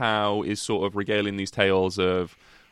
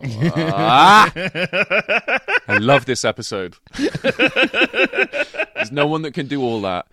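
real laughter breaking into the words, slow and louder; laughing through words; 5 semitones higher, 7 dB louder, much slower than usual. Real, not acted. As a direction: laugh helplessly while gushing about the film. Laughing while praising Howard Howe.

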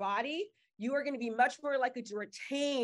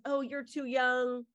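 negative inner voice. Retold or imitated. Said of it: "or it says".

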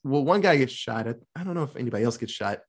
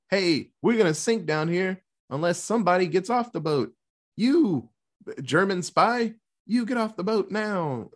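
higher, bossy demanding voice; mock demand; 5 semitones higher than usual. Soldiers ordering the supposed spy off, higher and bossy. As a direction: order him off the boat.

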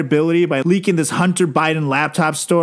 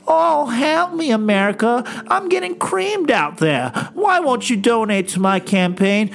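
whiny complainer; 5 semitones higher than usual. Retold or imitated. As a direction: overdo the pitiful pleading. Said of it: "what a complainer".

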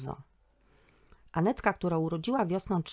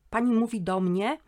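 louder, rising puzzled query; confused question; 5 semitones higher, 5 dB louder than usual. Acted. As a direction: caught off guard, asks if she means him. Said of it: "zapytał zdezorientowany".

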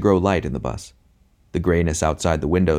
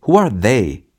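louder, higher indignant question; raised voice among whisperers; annoyed, unlowered voice; 5 semitones higher, 6 dB louder, slower than usual. A narrator's reading. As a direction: forget to keep it down. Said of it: "replied without remembering to lower my voice".

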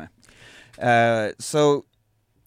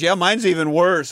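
mock loud gloat; 5 semitones higher, 8 dB louder than usual. Harry shoves beer, retold.

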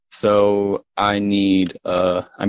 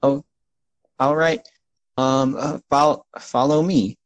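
higher-pitched, hesitant gnome; 5 semitones higher than usual. Acted. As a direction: stumble over it as a small gnome guide. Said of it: "that's a gnome".

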